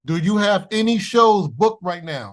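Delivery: distorted phone line; garbled bad connection audio; fuzz distortion. Real, not acted. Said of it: "You sound a little distorted".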